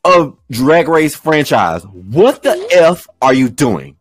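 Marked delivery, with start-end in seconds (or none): 1.8-4.0 mock outrage. Podcast host ranting at a contestant's wig, mock furious. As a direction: play up being offended for laughs. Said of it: "and I am pissed".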